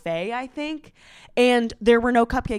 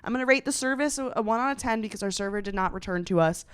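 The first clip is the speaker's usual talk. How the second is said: quick, soft, even reviewer tone; brisk, understated review delivery; matter-of-fact; 6 dB quieter, faster than usual. Retold or imitated. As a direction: rattle it off factually, without meanness. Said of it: "She's being very matter of fact".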